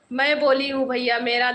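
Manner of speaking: laughing through the words; can't stop giggling while saying it; real giggles breaking in. Real, not acted. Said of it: "मैं अपने आप पे हंस रही हूँ".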